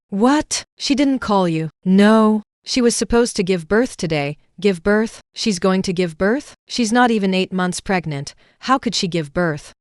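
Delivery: a shocked mother demanding answers; alarmed surprise. Acted. Shocked mother hears of birth.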